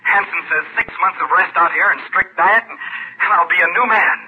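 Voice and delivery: excited. Acted. Tom telling Ken he will recover, excited. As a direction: urge your friend to share the good news. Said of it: "I'm excited".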